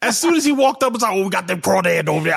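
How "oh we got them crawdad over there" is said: a light mock Creole accent. Mocking the suspect's Creole accent on the show, light Creole accent. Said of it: "there's a Creole accent like that".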